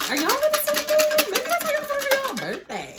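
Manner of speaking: very high silly voice. Pretend. Reader teasing the cards in a very high voice. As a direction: squeak it up high, joking with the cards.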